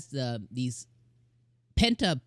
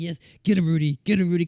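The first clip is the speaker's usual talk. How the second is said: cheering on; 3 semitones higher, 4 dB louder, faster than usual. Retold or imitated. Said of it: "the whole time I was like".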